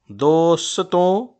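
"दो फा दो सतों" said very slowly, split into metric beats; scanning syllables. Shown as a demonstration. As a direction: stretch "दो सतों" into separate beats. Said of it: "एक साकिन के बाद एक और साकिन". ("दो सतों" को रुक-रुक कर धीरे बोलना)

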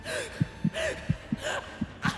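breathy, voiceless laugh. Real, not acted. Viewer laughing at the scarf hit, quiet wheeze. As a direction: laugh quietly with barely any voice.

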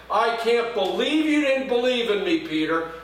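mock indignant rebuke; accusing indictment. Pastor mimicking how others preach it, mildly accusing. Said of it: "That's how many pastors preach".

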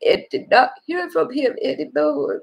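holding back real tears while telling it; tearful. Real, not acted. Grieving widow-carer tells her sweetheart, near tears. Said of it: "Don't cry, sweetheart".

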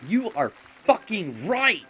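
milking it. Real, not acted. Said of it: "And I'm milking this".

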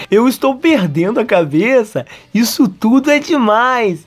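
high-pitched, drawn-out despair; mock overwhelm. Kazuya losing his head, high-pitched mock despair. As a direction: let it rise into acted overwhelm.

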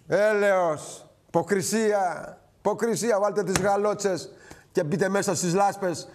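drawn-out, disgusted words, slowed right down; slow, scornful rebuke of the politicians; slow scornful scolding. Real, not acted. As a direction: spell it out slowly in contempt.

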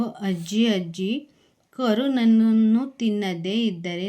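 measured storytelling read, lightly voicing the repeated calls; story narration. Teacher reading the shrimp tale aloud to her class, in a gentle storytelling voice. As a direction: tell the tale as if reading to children.

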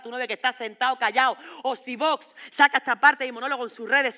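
loud, hammering rant; furious shouting. Acted. Girlfriend demands Antonio look at her, furious shouting.

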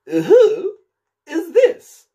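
loud, high imperious demand; severe. Acted. The Queen of Hearts demanding who Alice is, severe and loud. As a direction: snap at the Knave like a furious queen. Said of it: "said severely".

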